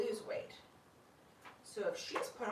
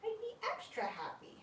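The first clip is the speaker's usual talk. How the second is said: I'd be extra happy in a much higher, softer squeak; squeaky voice; 12 semitones higher, 5 dB quieter than usual. Shown as a demonstration. Owner repeating her wish to the glider, high and soft. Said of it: "repeats line in a new voice".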